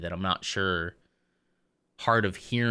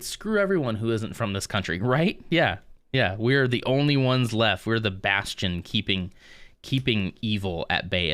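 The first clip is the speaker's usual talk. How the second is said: mock zealous patriot; 4 dB louder than usual. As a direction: play a hint of a self-righteous flag-waver. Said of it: "that is kind of what some people believe".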